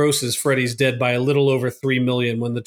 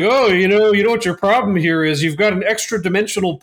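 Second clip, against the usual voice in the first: handyman voice; 5 semitones higher than usual. Retold or imitated. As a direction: play the smug repairman who knows everything. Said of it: "he's like".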